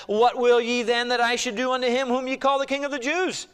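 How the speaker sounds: high, sustained public question; Pilate addressing a crowd. Acted. Pilate questions the crowd, read dramatically.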